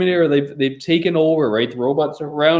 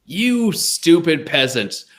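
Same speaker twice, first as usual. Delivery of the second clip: king voice; much slower than usual. Pretend. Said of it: "This is how a king would feel".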